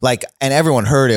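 normal talking voice

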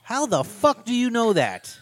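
loud, high, drawn-out disbelief; incredulous outburst. Real, not acted. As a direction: challenge it loudly, stretching the words in disbelief. Outraged at the character's assumption.

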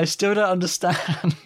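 put-on bewildered voice; mock bafflement. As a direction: deliver it as a baffled punchline. Quoting the baffled comedian's punchline.

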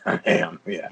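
laughing. Real, not acted. Laughing admission of heavy breathing.

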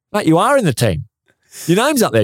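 high-pitched retold correction; mock incredulous. Telling an angry teammate he is selected, mock incredulous. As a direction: pitch it well up, gently setting a mate straight.

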